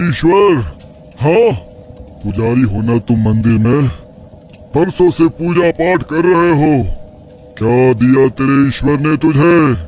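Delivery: a hint of a cruel old mystic; taunting tantric. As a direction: sneer at his faith and his daughter's fate. Sage taunts the priest.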